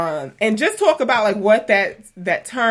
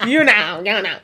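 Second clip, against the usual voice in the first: laughing; 3 semitones higher, 4 dB louder, much slower than usual. Real, not acted. Celebrating high play count.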